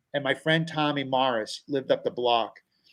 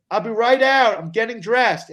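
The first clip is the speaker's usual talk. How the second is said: flustered panic; 7 semitones higher, 4 dB louder than usual. Retold or imitated. Panicked teen answering dad.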